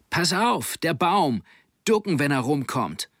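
high-pitched shouted warning; urgent warning call. Acted. Sailor warning his friend of the swinging boom, urgent call. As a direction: warn your mate before it hits him.

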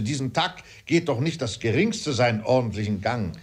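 lightly voiced fuming father; exasperated father. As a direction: complain with mild exasperation.

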